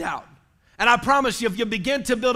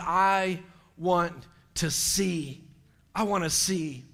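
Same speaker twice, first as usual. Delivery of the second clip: lower, softer, halting request; understated earnest longing; hushed plea; 4 semitones lower, 5 dB quieter, slower than usual. A narrator's reading. Blind man asking Jesus for sight, hushed plea.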